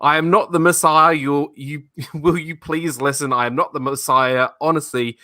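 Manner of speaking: a lightly voiced flustered Brian insisting; mock exasperated denial; Brian pleading. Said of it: "the quote goes".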